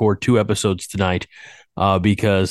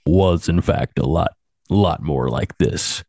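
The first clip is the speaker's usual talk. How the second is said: low morning voice; 4 semitones lower than usual. Shown as a demonstration. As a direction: drop it low like just woke up. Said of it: "my morning voice".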